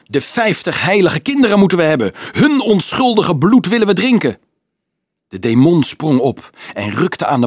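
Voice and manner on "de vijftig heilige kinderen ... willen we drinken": high, louder demonic threat; menacing devil. Acted. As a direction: gloat over the innocent blood. Devil threatens captive soldier. (hoog dreigende duivel)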